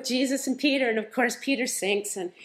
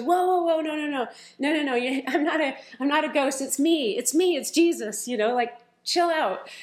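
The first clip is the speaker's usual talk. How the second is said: excited reassurance; 4 semitones higher than usual. Retold or imitated. Jesus calming the frightened disciples.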